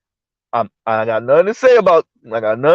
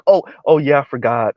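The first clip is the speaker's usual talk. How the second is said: mock realization; 3 semitones lower than usual. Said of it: "you're like".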